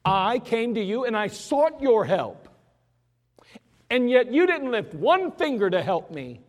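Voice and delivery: Jephthah protesting. Acted. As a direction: confront the Ephraimites with hurt anger. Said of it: "He says".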